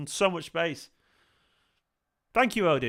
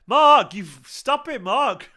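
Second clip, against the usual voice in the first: much higher and louder, slow, overwhelmed; excited squeal; 9 semitones higher, 10 dB louder, much slower than usual. Real, not acted. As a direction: squeal it out, caught off guard by kindness. Touched by a surprise donation.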